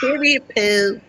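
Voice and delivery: drawn-out slow catchphrase; slow slang catchphrase. Shown as a demonstration. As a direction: stretch it out, showing how it goes. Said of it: "Did I do it?".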